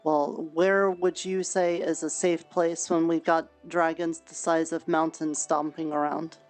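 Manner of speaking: ordinary talk, nothing marked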